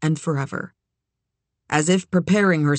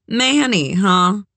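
surprised; 4 semitones higher, 4 dB louder, slower than usual. Acted. Daughter meets her father.

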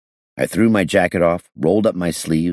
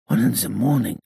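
dazed repetition; 7 semitones higher than usual. A narrator's reading. Gangster taking in the hour once more, high dazed voice. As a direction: repeat it wonderingly in a high foreign accent. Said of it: "he repeated".

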